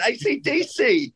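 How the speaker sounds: letters spelled out slowly and high. Shown as a demonstration. Aussie spelling out the band for the host, slow and high. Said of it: "come on".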